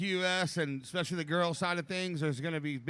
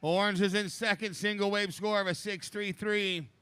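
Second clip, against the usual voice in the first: raised, upbeat heat call; laid-back surfer announcer; 3 semitones higher than usual. Real, not acted. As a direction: read the scores to the lineup. Second announcer calls heat scores.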